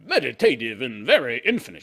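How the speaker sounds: slow, drawn-out swooning imitation; hammed-up gushing bridge lover; mocking her voice. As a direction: stretch the words out in dreamy mock rapture. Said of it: "She probably sounds like that, too".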